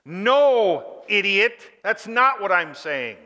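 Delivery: loud, blunt "No, idiot"; crass retort. Retold or imitated. Paul answering the sinners, loud blunt rebuke. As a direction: bark it like an exasperated apostle. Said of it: "That's the force of the original language".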